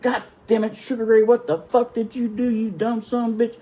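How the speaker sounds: high-pitched, exasperated chewing-out; retold angry chief. Chief runs up to the fallen sailor, angrily berating him. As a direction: act out a chief tearing into someone.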